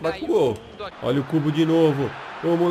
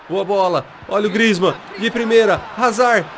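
excited play-by-play; 3 semitones higher, 3 dB louder than usual. Real, not acted. Live build-up to a goal.

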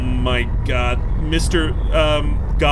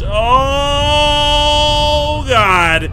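loud, higher gasp of shock; startled shout; 11 semitones higher, 8 dB louder than usual. Real, not acted. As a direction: blurt it out in fright. Shock at huge beast.

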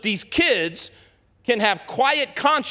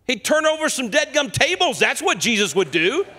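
preaching shout; 5 semitones higher than usual. Real, not acted. Preacher roused about Jesus.

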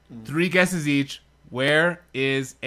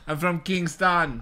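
Jamaican accent; slower than usual. Shown as a demonstration. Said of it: "That's my Jamaican accent".

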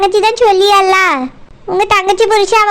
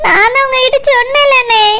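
tearful plea. Acted. Tearful wife pleads.

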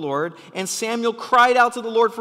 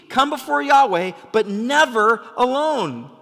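yelled; 5 semitones higher, 5 dB louder than usual. Shown as a demonstration. Preacher yelling the key line to the church. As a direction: shout it so they remember. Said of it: "I'm yelling because this is really important".

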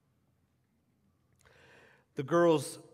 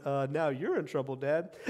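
parents' deadpan retort; 3 semitones lower than usual. Retold or imitated. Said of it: "All the parents went".

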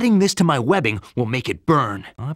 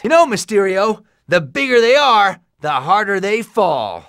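cocky taunt; 4 semitones higher, 4 dB louder than usual. Acted. Taunting a villain in a fight.

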